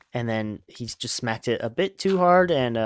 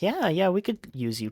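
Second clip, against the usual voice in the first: high, upbeat welcome from the group; eager agreement; 6 semitones higher than usual. Retold or imitated. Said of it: "they're all like".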